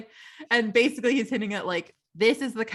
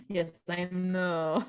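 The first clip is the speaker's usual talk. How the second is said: proud French; 5 dB quieter, much slower than usual. Retold or imitated. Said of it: "They're like".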